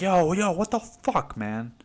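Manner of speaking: put-on startled high yell at the drunk; crowd yelling. Party guests yelling at the drunk guy, high startled yell.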